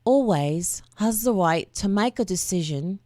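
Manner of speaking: whispered try at a British accent; a breathy first stab at sounding British; British accent attempt. Shown as a demonstration. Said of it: "read it in a voice that sounds like I'm a Brit".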